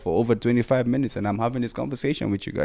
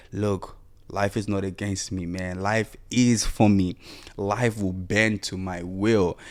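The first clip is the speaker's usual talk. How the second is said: calm affirmation; 3 semitones lower, 5 dB quieter, slower than usual. Retold or imitated. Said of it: "a victim mindset that says".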